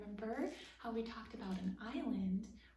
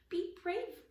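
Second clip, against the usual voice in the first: be brave higher and louder; higher repeat; 9 semitones higher, 4 dB louder than usual. Acted. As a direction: brave pushed up in pitch and loudness. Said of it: "Rip repeated to himself".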